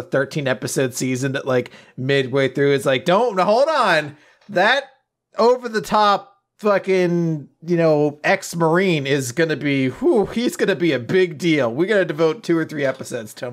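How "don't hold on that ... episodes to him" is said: high, loud, hammed-up exec pitch; mock showrunner rant. Mocking the Marvel producer, loud high exec voice. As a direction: ham up a clueless studio boss.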